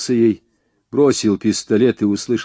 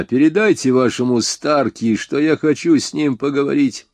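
calling out; 6 semitones higher, 3 dB louder than usual. Acted. Hero still calling to gunmen.

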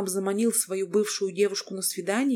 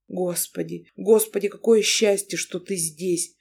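louder tearful relief bursting out; through tears; 4 dB louder than usual. Acted. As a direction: sob out the relief to the wife. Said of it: "бормотал он сквозь слёзы".

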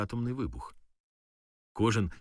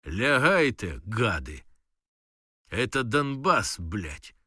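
fierce yell at the enemy soldiers; shout; 4 dB louder, slower than usual. Retold or imitated. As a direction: bark them to the ground. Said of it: "Кричу".

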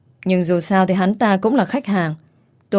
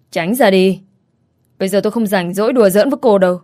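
louder, fast, clipped anger; growled retort; 3 dB louder than usual. Acted. Customer brushing off the shop girl, growling fast. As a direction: shove her off with a growl. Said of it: "gằn giọng đáp lại".

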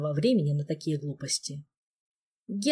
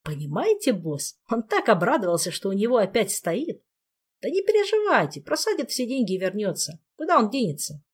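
sly teasing trickster spirit; 4 semitones higher than usual. Acted. Ghost teases boss.

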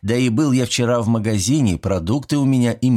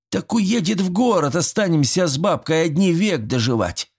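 mock lament; 10 semitones higher than usual. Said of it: "сокрушённо покачал головой Митрич".

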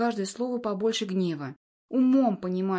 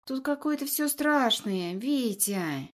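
sultry voice; 3 semitones higher, slower than usual. Acted. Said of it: "тянет девица томным голосом".

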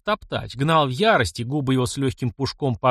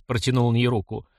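ordinary delivery, nothing marked

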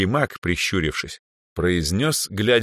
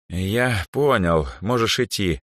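put-on slow, lost, higher old mage voice; confused dismissal; 3 semitones higher, slower than usual. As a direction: let it out slowly, at a loss. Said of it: "растерянно махнул рукой". (растерянно, медленно)

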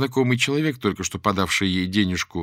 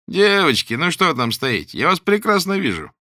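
high and loud, a mocking threatening call; menacing maniac call; 8 semitones higher, 5 dB louder than usual. The stalker calls to the hiding girls, mocking and menacing. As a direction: call out to them like a madman toying with prey.

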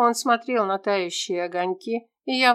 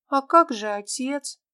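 put-on higher, childlike girl's voice; lightly voiced young girl asking her friend; little girl Tera; 6 semitones higher than usual. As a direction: play a small lost girl, hopeful.

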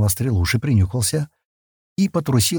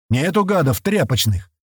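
booming call; 6 semitones higher than usual. A narrator's reading. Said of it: "раздался зычный голос".

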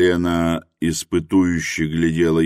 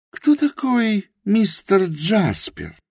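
put-on high, earnest young woman's voice, slow at first; Helena's voice; 14 semitones higher, slower than usual. A narrator's reading. Helena admits her ignorance to Rosa, high and earnest. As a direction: confess humbly in Helena's high voice.

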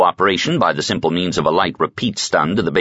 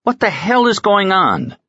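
put-on a higher, breathless young lieutenant; 14 semitones higher than usual. Johannes bursts in breathless at Roic's side, much higher. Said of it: "Johannes's breathless voice".

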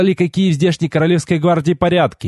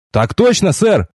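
higher-pitched dutiful reply; military acknowledgement; 7 semitones higher, slower than usual. A narrator's reading. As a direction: answer up like a recruit. Recruit repeats military acknowledgement. (бодрый ответ по уставу)

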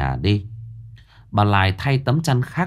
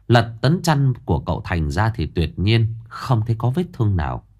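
ordinary delivery, nothing marked

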